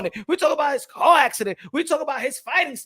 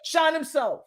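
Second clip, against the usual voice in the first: proud loud boast; 8 semitones higher, 11 dB louder than usual. Real, not acted. Hyping himself up.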